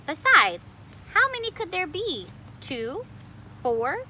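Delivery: excited. Acted. Grandmother shrugging off mice.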